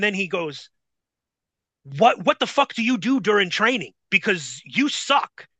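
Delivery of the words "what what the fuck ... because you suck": higher, exasperated mock berating; retold screaming. Bull berating the rookie after the match, mildly exasperated mimicry. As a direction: berate him, half-heartedly imitating a scream. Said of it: "screaming at me".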